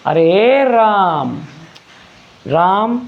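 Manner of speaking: slow faraway hail across a field; calling from far off. Shown as a demonstration. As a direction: call out to someone far away, stretching every vowel. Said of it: "कोई बहुत दूर है उसे हम आवाज़ लगा रहे हैं".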